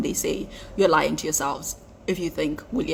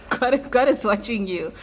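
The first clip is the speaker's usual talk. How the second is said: laughing; 2 semitones higher than usual. Real, not acted. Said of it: "I'm gonna laugh a little bit".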